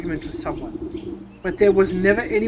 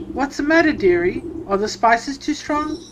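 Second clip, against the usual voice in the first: mock sweet dearie; 5 semitones higher than usual. Player coos at bandit.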